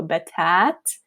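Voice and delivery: "betat" said slowly, alif held long. Shown as a demonstration. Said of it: "Listen to the difference between the length".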